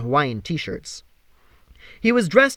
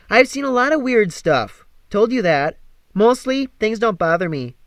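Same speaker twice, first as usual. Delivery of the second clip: Meg's voice; 6 semitones higher, 4 dB louder than usual. Acted. Meg explaining herself.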